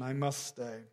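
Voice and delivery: hushed, certain insistence; calm firm statement. Retold or imitated. Jesus repeating quietly that he must stay. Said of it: "He doesn't ask permission".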